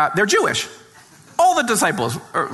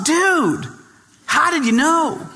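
imitating the radio host; 10 semitones higher, slower than usual. Radio host marvelling at the author's novel, higher dude voice. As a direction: play the amazed dude DJ.

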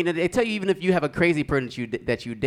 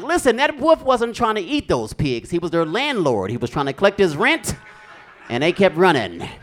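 raised, insistent schoolkid arguing; indignant yelling; 4 semitones higher, 4 dB louder than usual. Acted. Kid arguing with the teacher and all the kids, mock yelling. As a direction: argue it loudly, starting high. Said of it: "I'm yelling at him".

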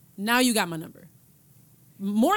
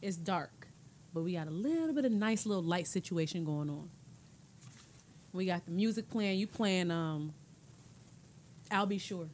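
eager movie pitch; 3 semitones lower than usual. Acted. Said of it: "let me paint the scene real quick".

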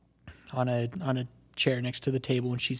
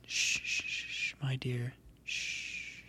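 whispered soothing shushes; 11 dB quieter, much slower than usual. Acted. Mother soothing her sobbing daughter, whispered shushing. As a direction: hush her gently like a crying child. Mom comforts crying daughter.

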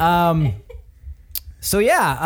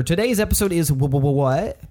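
jerky animatronic voice. Pretend. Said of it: "I'm malfunctioning as an animatronic robot".

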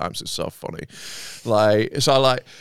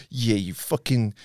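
roadman voice; slower than usual. Retold or imitated. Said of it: "the next one's like".

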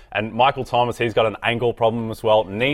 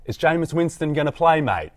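put-on English accent, pitched higher; 6 semitones higher than usual. Co-host showing how English people talk, English accent. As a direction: do a mock English person's voice. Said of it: "An English person would be like".

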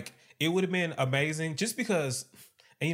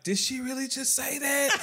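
mock disbelief; 10 semitones higher than usual. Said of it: "is looking at Ebony like".

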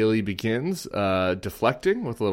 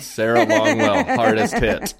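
laughing quote; 5 semitones higher, 6 dB louder than usual. Retold or imitated. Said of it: "I received several apps".

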